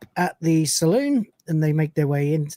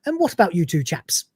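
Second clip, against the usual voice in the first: exaggerated British politeness; very British accent. Rimmer addresses his two companions at the bar, very British accent. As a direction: put on a hammed-up British accent. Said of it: "the most British accent ever".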